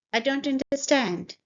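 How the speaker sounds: statement fall at the end of "understand". Shown as a demonstration. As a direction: voice drops on "understand". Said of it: "it was falling here".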